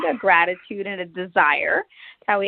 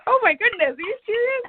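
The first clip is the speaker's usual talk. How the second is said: much higher, delighted disbelief; surprised disbelief; 13 semitones higher than usual. Retold or imitated. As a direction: gasp it out in happy shock, pitched up. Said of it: "it's like".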